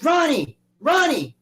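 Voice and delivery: high, loud shout of a name; calling out. Retold or imitated. Gym owner waking Ronnie after the fish feast, calling out. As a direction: yell to rouse a sleeper. Acted calling to sleeping friend.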